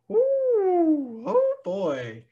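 put-on high nervous ooh, oh boy. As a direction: sweat out a close finish. Himself nervous watching game.

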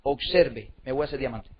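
quiet, low self-assurance; calm. Retold or imitated. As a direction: say it unruffled, letting the voice sink. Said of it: "y yo tranquilo".

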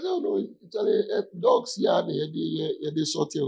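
mock the politician mid-argument, voice pitched high; mimicking the politician. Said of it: "he says, he says".

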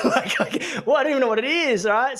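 giggly disbelief, rushed; laughing disbelief. Retold or imitated. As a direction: laugh it off in shocked confusion. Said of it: "And I was like".

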